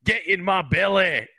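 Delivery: loud, high, drawn-out movie-villain catchphrase; hammy, stretched-out greedy yell; Fat Bastard. Retold or imitated. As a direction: bellow it hungrily as a movie catchphrase. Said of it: "he'd be like".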